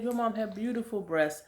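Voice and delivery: retold remark in a high, quiet voice; imitated nurse. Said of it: "She said".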